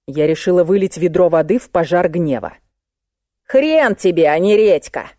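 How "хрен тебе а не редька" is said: usual speaking voice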